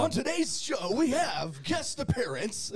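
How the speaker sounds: high, slowing announcer voice; hammed-up show-host intro. Co-host redoing the show intro, announcer style.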